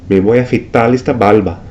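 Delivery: Puerto Rican r said as l in barba, balba; Puerto Rican accent. Shown as a demonstration. Teacher imitating a Puerto Rican speaker. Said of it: "pronounce the R ... like the L".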